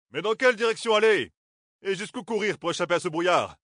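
voix bien plus aiguë, anxieuse; Darlene inquiète. A narrator's reading. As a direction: questionne le brouillard avec angoisse. Darlene s'interroge. (Darlene cherche une issue, voix aiguë inquiète)

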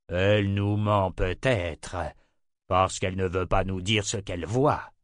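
slow, deliberate tyrant voice; lightly voiced emperor, weighing each word; suspicious, drawn-out tyrant's delivery; menacing emperor.

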